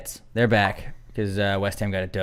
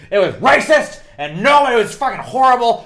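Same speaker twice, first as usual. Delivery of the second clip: much higher, louder outraged imitation; imitating girlfriend; 13 semitones higher, 8 dB louder than usual. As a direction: sound scandalised in her voice. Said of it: "it was like".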